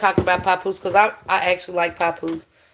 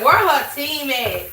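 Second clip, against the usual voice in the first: incredulous; 5 semitones higher, 4 dB louder, slower than usual. Retold or imitated. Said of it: "I said".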